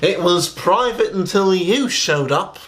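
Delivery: retold yell back. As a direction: act out yelling back, without real shouting. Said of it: "I yelled back at him".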